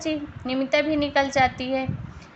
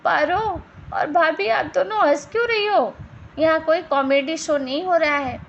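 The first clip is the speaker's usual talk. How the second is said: higher-pitched indignant rebuke; annoyed scolding; 4 semitones higher than usual. Acted. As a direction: tell off the laughing women. Husband scolds laughing relatives. (चिढ़कर डाँटना)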